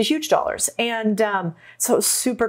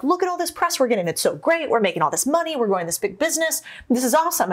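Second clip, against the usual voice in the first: mildly excited, higher-pitched retelling; excited sharing; 5 semitones higher than usual. Retold or imitated. Sharing good press with the firm's managers, mildly excited. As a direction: relive the eager sharing of good news. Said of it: "I'd be excited".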